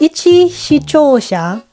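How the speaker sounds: speaking with a retainer in; words slurred by a retainer; wearing a retainer. Real, not acted. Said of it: "I can't say that with my retainer".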